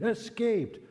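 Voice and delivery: high, loud furious commandant yelling. Acted. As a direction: bark the threat at the prisoners. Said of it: "screamed at them in fury".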